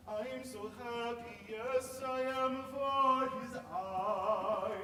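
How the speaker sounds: building up to a loud, slow "for his eye". Shown as a demonstration. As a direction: preach it with rising excitement. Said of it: "because that's more exciting".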